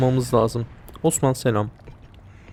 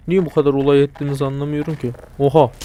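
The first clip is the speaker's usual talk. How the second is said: usual speaking voice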